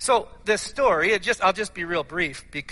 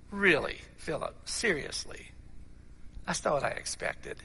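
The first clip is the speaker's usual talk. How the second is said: soft, falling, let-down reproach; sinking heart; 3 semitones lower, 8 dB quieter than usual. Acted. Jesus to Philip after a faithless answer, heart sinking. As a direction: let the disappointment drop the voice softly. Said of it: "the heart of Jesus sink".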